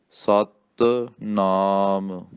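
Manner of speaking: ਸਤਿਨਾਮ very slow, ਸਤ clipped tight then ਨਾਮ; ਸਤ ਕੱਸ ਕੇ, ਫਿਰ ਨਾਮ, slowly. Shown as a demonstration. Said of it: "ਸਤ ਕੱਸ ਕੇ, ਫਿਰ ਨਾਮ".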